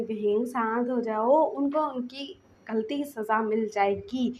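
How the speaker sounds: slow, soothing reassurance; calm him down gently. Acted. Lansan calms angry Wing. (धीरे से शांत करना)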